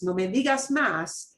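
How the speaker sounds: flat, final brush-off; curt dismissal. Shown as a demonstration. Teacher demoing a shut-down, curt and final. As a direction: end the subject, no argument. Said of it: "in that tone of voice".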